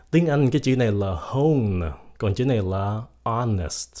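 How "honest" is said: HONEST as "ON-est"; silent H. Shown as a demonstration. Teacher contrasts it with hone, HONEST with silent H. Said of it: "Cái âm H nó cái âm".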